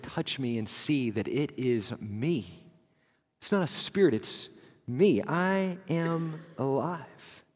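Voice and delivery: soft, slowing to a tender finish; gentle reassurance. Retold or imitated. Jesus softly reassures frightened disciples, slow and gentle. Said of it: "and he said".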